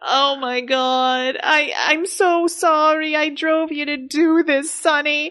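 slow, hammed-up tearful apology; the wife, mock crying. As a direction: sob out the apology. Angie breaks down on phone.

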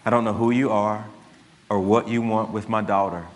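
imitating a cold calm father threatening the kidnapper; lightly voiced Taken speech; Liam Neeson threat. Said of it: "And he says".

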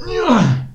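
high, loud battle shout; war cry on a swing; Aragorn battle yell. Acted. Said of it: "Can you do a good Aragorn noise?".

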